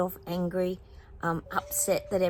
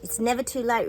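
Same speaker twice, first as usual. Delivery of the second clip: higher, louder, bright emphatic line; 5 semitones higher, 3 dB louder than usual. Real, not acted. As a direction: say it with a rousing lift. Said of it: "Remember that, guys".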